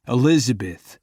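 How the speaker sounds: calling her name sharply. Acted. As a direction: snap her name to stop her. Calling out as she speeds.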